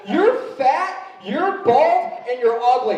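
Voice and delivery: put-on high-pitched bratty child voice; taunting kid. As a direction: jab each insult up high like a cheeky kid. Imitating kid's insults.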